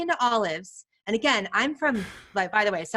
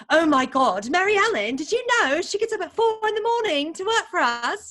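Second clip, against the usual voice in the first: husband's exclamation; 9 semitones higher, 3 dB louder than usual. Retold or imitated. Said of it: "he goes".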